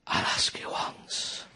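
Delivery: very low, slow, quiet gravel threat; dad threatening the kids in the back of the car; Lee Van Cleef menace. Retold or imitated. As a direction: growl it like a spaghetti western villain. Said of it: "Lee Van Cleef".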